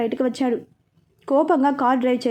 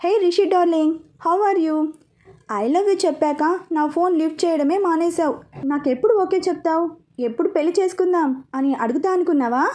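put-on playful girlfriend voice; 3 semitones higher than usual. Girl's letter read aloud.

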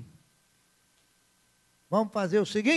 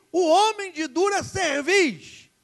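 slow, weighty and higher, every word leaned on; slow preacher's citation; solemn scripture quote; 8 semitones higher, 6 dB louder, slower than usual. Shown as a demonstration. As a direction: intone the verse like a warning. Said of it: "A Bíblia diz".

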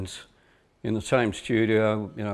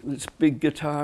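usual speaking voice

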